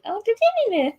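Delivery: mock question.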